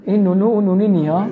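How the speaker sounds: quick laughing comic catchphrase, lightly voiced; Hassan Fallah catchphrase. Teacher playfully imitating a comedian's catchphrase, quick and laughing. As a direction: toss off the comedian's line with a chuckle.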